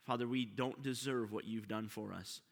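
soft, low prayer voice; hushed reverent prayer. Acted. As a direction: pray quietly and humbly to the Father. Opening prayer before the sermon.

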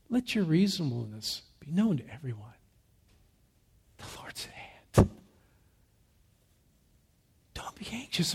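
hushed start, building to full voice; as Paul intended. Shown as a demonstration. Preacher reads Paul's letter as first hearers heard it, hushed then building. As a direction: read it reverently, leaning into God's nearness and peace. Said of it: "heard it something like this".

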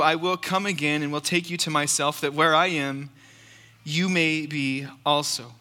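measured, solemn Bible reading; steady pulpit reading of scripture. Acted. Scripture reading before sermon.

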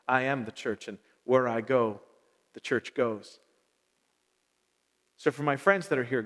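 measured, reverent prayer with long pauses. Real, not acted. Pastor praying to God for his friends, prayer. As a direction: pray simply, letting phrases fall away.

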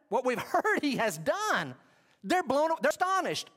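excited. Acted. Preacher building to excitement.

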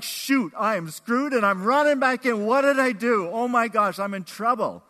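loud, high mock panic; hammed-up alarm, racing home; panicked kid. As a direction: blurt it out like a kid caught out. Acted child panicking at full name.

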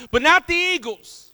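not hit high, loud and slow; stress on not. Acted. Preacher stressing not to the congregation. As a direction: lean hard on not before the eagles.

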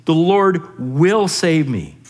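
slow, weighty certainty; calm sure declaration, very slow. Shown as a demonstration. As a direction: lean into each word with confidence. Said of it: "Look, look at how certain he is".

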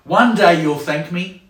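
drawn-out know-it-all parent line; stern parent. Acted. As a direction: lay it down slowly like a parent. Parent lecturing a child.

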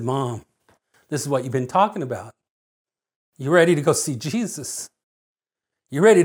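low, soft bedside voice; tender and hushed, retold; gentle reassurance. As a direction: gently reassure a dying mother. Son comforts his dying mother, retold.

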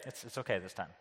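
low, soft letting-off; hushed, lenient parent; gentle reassurance. Acted. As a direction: let them off gently, voice dropped. Parents letting child off grounding.

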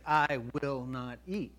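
slow, firm I-will-not; adamant refusal. Retold or imitated. Vegan at a party refusing meat, slow and adamant. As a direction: dig in your heels on every word. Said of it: "And it's adamant in your mind".

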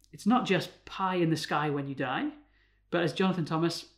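normal talking voice

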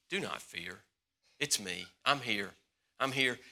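soft, hushed words of comfort; the Lord soothing frightened believers, softly; gentle reassurance. Acted. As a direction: speak it softly, like a comforting whisper to a scared child.

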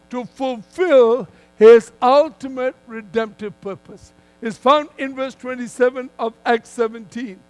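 firm, measured sermon delivery with punched key words; emphatic preaching. Real, not acted. Preacher telling a congregation God moves people so they seek him, emphatic preaching.

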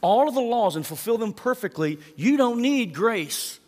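up high, drag out don't need grace. Retold or imitated. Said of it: "Jesus is saying ... is like".

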